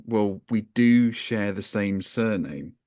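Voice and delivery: slow, dry deadpan; understated deadpan; deadpan reveal. Retold or imitated. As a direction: drop the line flat and slow.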